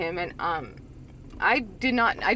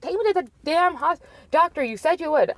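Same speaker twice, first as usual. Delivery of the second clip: higher-pitched imagined nagging; badgering demand; 8 semitones higher than usual. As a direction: pester him in a raised, urgent pitch. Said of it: "didn't wanna badger him".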